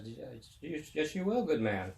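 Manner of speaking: a cheery Irish bartender. Retold or imitated. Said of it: "the bartender says".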